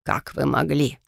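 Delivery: a lightly voiced reproachful question; hurt, accusing demand. Favérol confronting Amalia, mildly accusing. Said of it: "обвинительно начал он".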